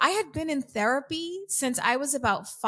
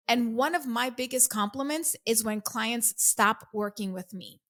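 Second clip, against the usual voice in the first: normal talking voice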